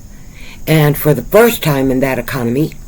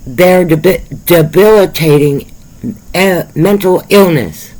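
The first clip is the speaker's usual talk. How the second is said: tripping over the word, restarting; struggling to get the words out, upset; stumbling over words; 3 semitones higher than usual. Real, not acted. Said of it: "I'm having a hard time getting my words out right".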